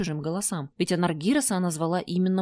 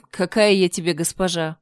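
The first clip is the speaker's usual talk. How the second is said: grumbled; 5 dB louder than usual. Acted. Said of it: "проворчала она".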